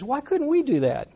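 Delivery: baffled disciples. Retold or imitated. Disciples asking Jesus, baffled.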